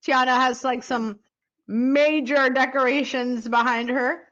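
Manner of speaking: talking while chewing gum. Real, not acted. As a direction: speak around a wad of gum. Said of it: "the gum in your mouth".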